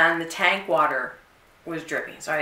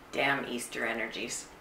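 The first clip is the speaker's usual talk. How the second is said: muttered grumble; 6 semitones lower, 11 dB quieter than usual. Retold or imitated. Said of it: "I was like".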